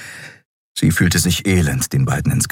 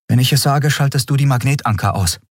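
put-on higher, brisk young woman's voice; young captain Andriel; 7 semitones higher, faster than usual. A narrator's reading. Captain explains to her crew, lively and quick. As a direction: lift it up and push on briskly.

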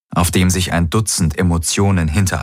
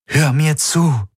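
higher-pitched, slow insistence; urgent appeal; 10 semitones higher, slower than usual. A narrator's reading. Woman repeating her plea to her friend, urgent. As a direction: press him to listen, drawn out and high.

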